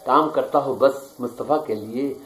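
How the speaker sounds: measured, declaiming poetry recital; stately nazm recitation. Acted. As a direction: recite each line with weight. Poet recites his nazm. (پُروقار نظم خوانی)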